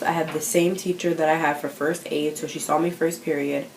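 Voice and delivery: talking while eating grapes; mouth full. Real, not acted. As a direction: speak around a mouthful of grapes. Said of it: "sorry, I'm eating grapes".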